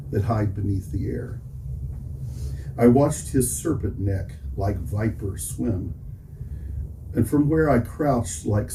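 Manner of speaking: deliberate poem reading, pausing between phrases; poetry recitation. Real, not acted. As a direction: announce the title, then recite it in measured phrases. Recites second poem to audience.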